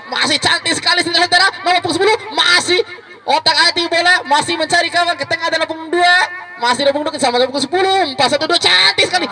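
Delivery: excited commentary. Acted. Excited commentary on a good move.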